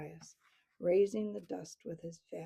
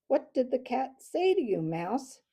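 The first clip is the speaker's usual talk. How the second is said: loud, rasping demand; rasped; 4 semitones higher, 7 dB louder than usual. A narrator's reading. Owl questions the mouse about the cat, rasping. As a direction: rasp it out as a predator questioning prey. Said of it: "he rasped".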